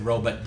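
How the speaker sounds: "robot" with a reduced second vowel, ROH-buht; Northeast robot. Retold or imitated. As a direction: say "robot" as ROH-but, schwa ending. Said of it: "the guy said".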